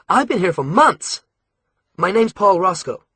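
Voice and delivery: put-on an American boy, bitter and firm; American accent. A narrator's reading. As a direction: captive American boy telling Alex, American accent. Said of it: "He had an American accent".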